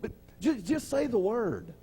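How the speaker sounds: a hint of a humble soldier begging; centurion's humble plea. Centurion asking the Lord to just say the word, lightly voiced.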